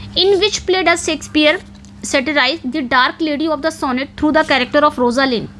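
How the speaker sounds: reading the question out very slowly; slow, careful question read; slow dictation. Shown as a demonstration. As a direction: spell out every word for students to note down. Reads the exam question aloud.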